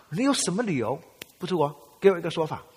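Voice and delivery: loud, high demanding father; angry father. Retold or imitated. Father pressing his son hard, loud and indignant. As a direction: mimic dad demanding a reason.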